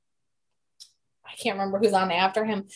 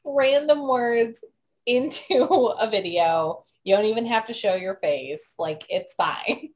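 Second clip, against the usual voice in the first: whiny begging request, softening at the end; begging plea. Retold or imitated. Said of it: "I'm like".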